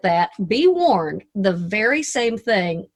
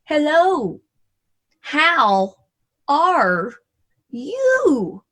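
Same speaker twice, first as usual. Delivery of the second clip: lightly voiced prim older lady, higher and drawn out; prim teacher voice; 5 semitones higher, much slower than usual. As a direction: mimic the prim elocution teacher, stretching each word. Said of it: "she says".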